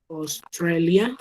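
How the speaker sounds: Australia said slowly with an o sound at the start; ostrelia, slow; English au diphthong. Shown as a demonstration. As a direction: stretch Australia, open o for au. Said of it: "en inglés el diptongo es O".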